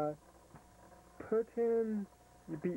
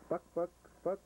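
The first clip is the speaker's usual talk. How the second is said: chicken clucking; 3 semitones higher than usual. Shown as a demonstration. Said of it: "Do a chicken".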